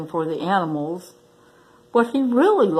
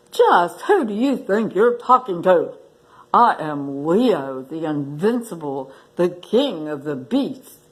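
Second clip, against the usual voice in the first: indignant lion king; 2 semitones lower than usual. Acted. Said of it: "speak to him that way".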